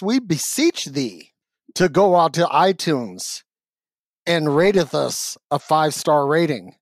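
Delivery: slow, solemn mock scripture; mock King James preacher. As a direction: intone it like old scripture. Mock biblical plea for ratings.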